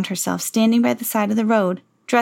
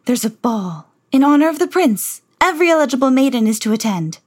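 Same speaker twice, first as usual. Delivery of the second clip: a touch louder, haughty announcement; stepmother announcing; 5 semitones higher, 4 dB louder than usual. Acted. Stepmother announces the ball to the household, haughty. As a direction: proclaim it grandly. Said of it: "Cinderella's stepmother announced".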